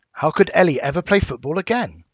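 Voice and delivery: "again" lifted in pitch as a question; questioning rise. Shown as a demonstration. Teacher demonstrating a question mark to pupils, voice rising on "again". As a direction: ask it with the voice going up at the end, on "again". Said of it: "my voice went up at the end".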